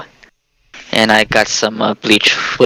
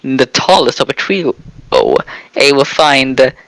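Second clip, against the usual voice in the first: put-on Jamaican accent. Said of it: "why are you talking in a Jamaican accent now?".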